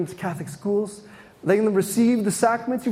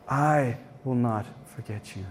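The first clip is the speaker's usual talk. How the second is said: tender repeat; 9 semitones lower, 6 dB quieter than usual. Shown as a demonstration. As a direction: repeat it lower and much softer, tenderly. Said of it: "yet I will not forget you".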